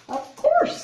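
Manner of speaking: very high, loud squeak of a hare; squeaky hare. Acted. Hare answering the bear's thanks in a squeaky high voice. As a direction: pop it out in a tiny high hare voice.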